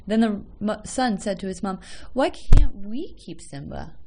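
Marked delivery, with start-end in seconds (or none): 2.1-3.9 put-on higher, louder, slow pleading child; pleading boy. A narrator's reading. Son pleading with his mom to keep the dog. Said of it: "in a voice that made his mother knew that he really, really wanted".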